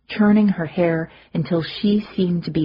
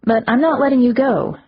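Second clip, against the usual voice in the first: almost familiar voice; 7 semitones higher, 5 dB louder than usual. Acted. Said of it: "in an almost familiar voice".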